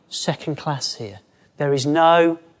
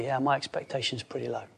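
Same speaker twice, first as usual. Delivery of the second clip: guilty; 3 semitones lower, 12 dB quieter, faster than usual. Retold or imitated. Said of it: "Or we could feel guilty".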